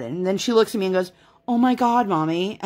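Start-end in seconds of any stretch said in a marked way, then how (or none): 1.5-2.6 put-on a light toddler voice copying mom's Oh my God; lightly voiced little girl echoing mom's exclamation. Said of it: "With the exact same inflection that I have".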